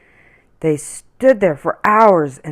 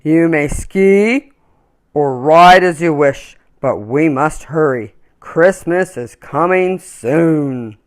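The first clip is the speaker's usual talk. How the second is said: louder, lightly voiced calm bear; deep soothing bear; 6 dB louder than usual. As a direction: speak like a calm big bear. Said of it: "he said in a deep, soothing voice".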